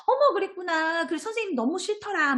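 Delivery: high, exaggerated sympathy with a gasping 어머; mock gushing teacher. Shown as a demonstration. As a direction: overdo the sympathy, the wrong way to answer. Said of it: "뭐 이렇게 얘기하시지 말고".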